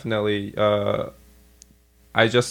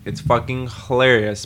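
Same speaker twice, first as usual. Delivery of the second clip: ordinary talk, nothing marked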